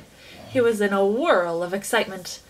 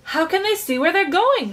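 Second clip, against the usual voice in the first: shrieked; 7 semitones higher than usual. A narrator's reading. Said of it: "shrieked Violet Beauregarde".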